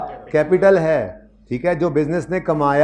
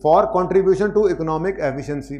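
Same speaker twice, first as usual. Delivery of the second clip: very slow, careful reading aloud; slow study reading; slow model reading; 2 semitones higher, much slower than usual. Shown as a demonstration. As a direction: read each phrase slowly, like a demo. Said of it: "बस ये ऐसे ही पढ़ने हैं हर बार".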